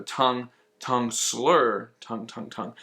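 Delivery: "slur" stretched out between short "tongue" syllables; articulation demo. Shown as a demonstration. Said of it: "we have an articulation".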